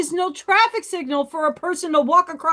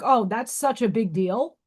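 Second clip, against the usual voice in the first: mocking manner; 2 semitones lower than usual. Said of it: "in mocking manner".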